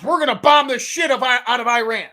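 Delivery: half-hearted Trump bluster; mock Trump shout. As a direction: bark it like a brash president. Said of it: "Donald Trump".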